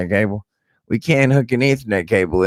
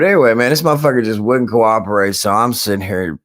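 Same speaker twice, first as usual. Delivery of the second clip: angry rant; 4 semitones higher, 4 dB louder than usual. Real, not acted. Ranting about PlayStation.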